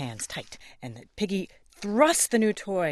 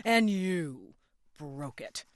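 angry Piggy; 8 semitones higher, much slower than usual. Acted. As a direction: accuse him word by word.

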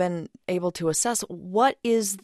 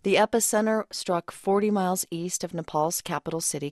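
measured, even newsreader delivery; news read; 3 semitones lower than usual. Real, not acted. Anchor briefs radio listeners on the Nepal earthquake, news read.

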